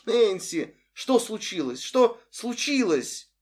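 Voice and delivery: high, worried calling through the door; anxious mom calling; frightened mother. Acted. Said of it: "испуганный голос Мардж". (испуганный голос матери)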